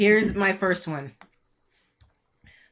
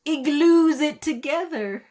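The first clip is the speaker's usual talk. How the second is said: laughing; 8 semitones higher, 4 dB louder, slower than usual. Real, not acted. Delivering joke punchline.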